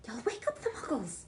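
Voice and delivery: stern teacher whispering; hissed whisper. A narrator's reading. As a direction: warn him in a hiss. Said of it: "hissed Professor McGonagall".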